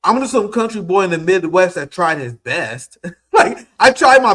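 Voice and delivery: a rueful laugh with a crack of crying; tearful laugh; laughing near tears. Real, not acted. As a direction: laugh so you don't cry. Laughing, near tears about his effort.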